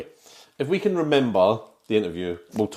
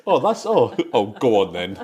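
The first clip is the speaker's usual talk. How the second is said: laughing mimicry; 6 dB louder than usual. Mimics co-host's line, laughing.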